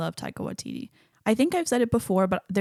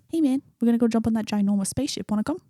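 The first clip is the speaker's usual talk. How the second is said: lightly imitated New Zealand accent; amateur New Zealand accent for a quote; 3 semitones higher, faster than usual. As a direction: casually attempt Korg's New Zealand accent. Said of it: "work on my New Zealand accent".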